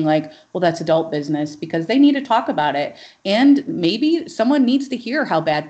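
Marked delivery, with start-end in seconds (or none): 0.5-1.5 quick, mildly patronizing brush-off; lightly mocked condescension; condescending. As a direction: imitate a dismissive adult, lightly and fast. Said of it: "with this condescending".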